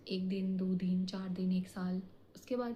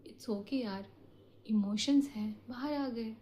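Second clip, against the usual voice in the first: soft self-reassurance. Pretend. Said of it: "खुद को कह दो".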